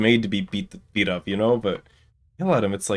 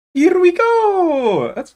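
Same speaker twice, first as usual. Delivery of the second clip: cartoon plumber voice, higher, louder, slower; 6 dB louder than usual. Getting ready to begin, the speaker tries out a Mario voice. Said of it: "do I have a Mario voice?".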